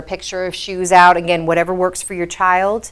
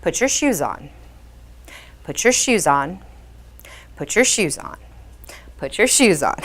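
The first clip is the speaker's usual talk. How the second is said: calm monotone; 5 dB quieter than usual. Shown as a demonstration. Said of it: "in a calm, monotone voice with minimal eye contact".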